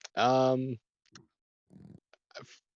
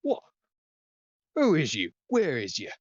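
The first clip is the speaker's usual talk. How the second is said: confused rider; 7 semitones higher, 3 dB louder than usual. Acted.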